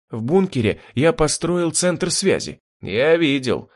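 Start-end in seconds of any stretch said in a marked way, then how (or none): none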